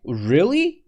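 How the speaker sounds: rising, questioning Really; surprised. Shown as a demonstration. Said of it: "We are surprised".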